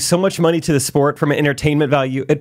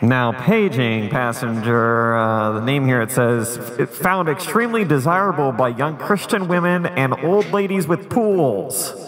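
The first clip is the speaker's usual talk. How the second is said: airport announcement; 3 semitones lower than usual. Pretend. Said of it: "Intercom effect?".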